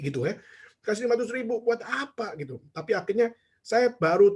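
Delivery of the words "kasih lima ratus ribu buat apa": high-pitched incredulous question; mock indignation. Preacher questioning the gift in retold thought, indignant. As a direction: act out a mildly affronted protest. Acts out his offended first reaction.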